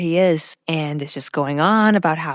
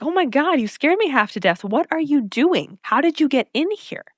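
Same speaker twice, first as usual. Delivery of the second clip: mock startled; 6 semitones higher than usual. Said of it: "Lorelai's like".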